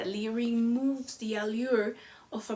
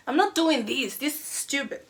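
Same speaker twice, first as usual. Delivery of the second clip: frustrated student; 3 semitones higher than usual. Retold or imitated. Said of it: "visibly frustrated".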